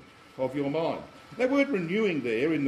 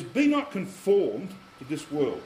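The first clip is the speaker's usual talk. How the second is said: unhurried, deliberate verse reading; slow scripture quote; slower than usual. Shown as a demonstration. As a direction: read the verse with gravity. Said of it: "He says".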